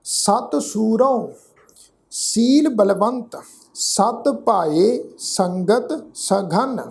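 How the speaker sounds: measured verse reading, phrase by phrase; deliberate teaching recitation; scripture recitation. Shown as a demonstration. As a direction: recite the sacred verse with a pause after each phrase.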